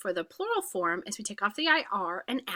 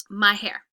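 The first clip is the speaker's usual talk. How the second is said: My pushed louder with hair after it; stress on my; 7 dB louder than usual. Shown as a demonstration. Teacher stressing My to show the hair belongs to her. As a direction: lean hard on My in My hair. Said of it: "because it's mine".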